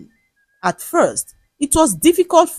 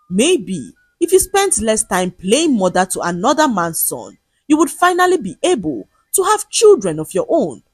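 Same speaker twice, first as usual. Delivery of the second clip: bitter; 3 semitones higher than usual. Acted. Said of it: "Odinaka laughed bitterly".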